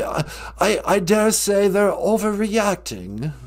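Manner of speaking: a hint of a posh British royal; lightly voiced pompous prince; Prince Harry voice. Plays Prince Harry caller.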